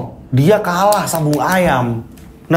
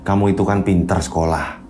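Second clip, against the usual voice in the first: lower, measured teacher; calm disappointed reproach; teacher questions Hendy about skipping school; teacher's voice; 9 semitones lower than usual. Acted. Teacher scolds gently.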